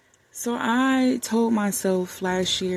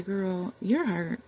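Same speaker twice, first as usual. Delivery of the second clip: tender self-talk. Retold or imitated. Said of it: "have a heart-to-heart with myself and say".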